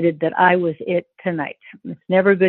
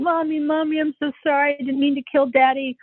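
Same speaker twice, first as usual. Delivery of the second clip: retold frantic apology; 7 semitones higher than usual. Daughter apologising to mother by the car, imitated high plea. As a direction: re-enact a distressed daughter, voice pitched up. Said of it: "I ran around the back of the house going".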